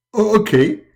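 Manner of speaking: very high begging voice; pleading Muhammad. Acted. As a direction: beg frantically for forgiveness. Muhammad answering God.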